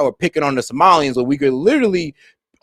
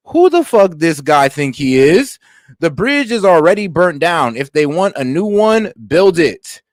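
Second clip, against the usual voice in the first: slow, louder mock outburst; imitating a fed-up caller; 4 dB louder, slower than usual. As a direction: hammer each word like you've had enough. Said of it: "He says".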